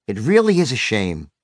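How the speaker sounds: low-pitched, mild regret; sigh-free, understated sympathy, pitch dropped; softened sympathetic voice. Retold or imitated. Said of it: "I softened my voice even more".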